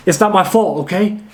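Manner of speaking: breathless after push-ups; panting, just finished exercising; out of breath. Shown as a demonstration. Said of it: "completely out of breath".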